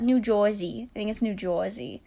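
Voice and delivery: playful mock New Jersey accent. Vlogger wondering which accent that was, mock New Jersey accent. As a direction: say it like a put-on Jersey local. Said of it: "We talk like that".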